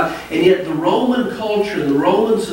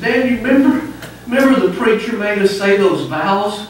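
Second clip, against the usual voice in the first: whiny son; 5 semitones higher than usual. Retold or imitated. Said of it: "The boy said".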